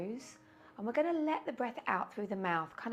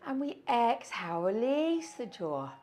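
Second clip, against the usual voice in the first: gurning breath; 2 semitones higher, 6 dB louder than usual. Shown as a demonstration. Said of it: "a gurning breath".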